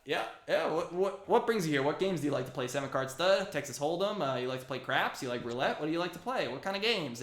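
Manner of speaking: high, loud, eager gambler voice; wired gambler. Acted. Human gambler Gary hyping up games to Ear Talk, high and loud. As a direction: push every game at him, too keyed up. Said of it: "he's, like, way on it right now".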